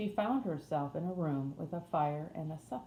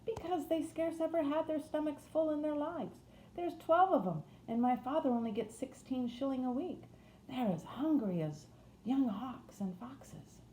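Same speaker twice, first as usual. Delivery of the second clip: much higher-pitched Yorkshire housemaid; Yorkshire accent; 9 semitones higher than usual. A narrator's reading. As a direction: speak up high in broad Yorkshire. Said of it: "in a broad Yorkshire accent".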